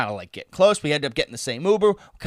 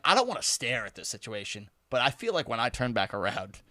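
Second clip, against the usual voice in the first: low, soft inner monologue; retold private thought; 7 semitones lower, 10 dB quieter than usual. Storyteller trying not to stare at the bathroom, low and furtive. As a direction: voice the thought under your breath.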